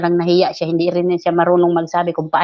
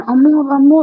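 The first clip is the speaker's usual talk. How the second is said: mock pleading; 7 semitones higher, 6 dB louder than usual. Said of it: "nagmamakaawa sa akin".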